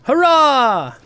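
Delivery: high, loud little Hobbit cheer; squeaky Hobbit shout of joy. Retold or imitated. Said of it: "It sounded a lot like a Hobbit voice".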